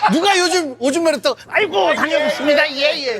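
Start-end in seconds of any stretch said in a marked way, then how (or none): 1.5-3.2 put-on theatrical, old-style dramatic acting delivery. Mocking the dated acting style of old dramas: imitating old-fashioned acting. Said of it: "그 옛날 연기".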